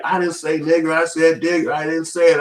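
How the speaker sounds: high, whiny coworker pleading his innocence; mocking a coworker denying he said it; mock white coworker. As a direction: squeak it out like a nervous office guy. Imitating coworker denying the word.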